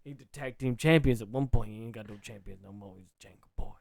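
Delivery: put-on low, folksy New Orleans accent. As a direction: spin a tale in mock New Orleans accent. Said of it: "a New Orleans".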